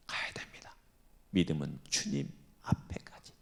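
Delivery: unvoiced hush; whisper. Real, not acted. Preacher whispering to the congregation. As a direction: lean in and whisper it.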